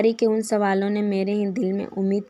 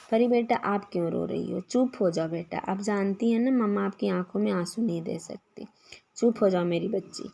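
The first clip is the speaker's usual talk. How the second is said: put-on soothing a crying child; 3 dB quieter than usual. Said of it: "उसको समझाने लगी".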